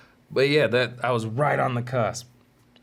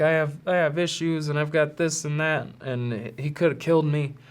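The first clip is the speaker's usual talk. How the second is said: put-on upset girl; 5 semitones higher than usual. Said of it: "her being like".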